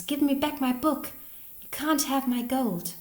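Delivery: high, forceful demand; loud voice. A narrator's reading. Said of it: "then a loud voice".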